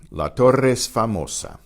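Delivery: Torre es joined into one word, "torres"; La Torre es famosa, Torre and es as one; blended vowels. Shown as a demonstration. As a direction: merge the two E's of Torre es. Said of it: "and sound as one".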